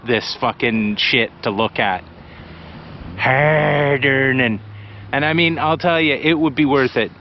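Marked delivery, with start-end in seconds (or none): 3.2-4.6 slow emphatic. Real, not acted. Sums up his point.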